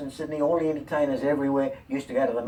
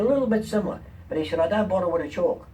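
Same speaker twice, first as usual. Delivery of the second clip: rabbi's voice, pitched higher; a hint of a sly rabbi; the rabbi slyly explains his method, lightly voiced; 5 semitones higher, faster than usual.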